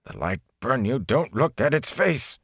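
frightened rising cry, voice cracking; shaking, cracking voice. A narrator's reading. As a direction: force the words out through fear. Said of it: "His voice shook and cracked".

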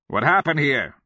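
alarmed high, loud demand; cried out. A narrator's reading. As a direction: cry the question out urgently. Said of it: "a Kamian cried".

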